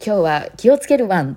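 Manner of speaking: slightly put-on doggy TV narration; lightly mocked cutesy dog talk. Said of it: "ワンニャン警察のものでも".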